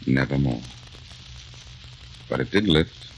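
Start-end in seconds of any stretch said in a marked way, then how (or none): 0.0-0.6 slow, solemn verse; poem recitation. Acted. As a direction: finish the poem gently and slowly. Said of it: "that poem he was saying".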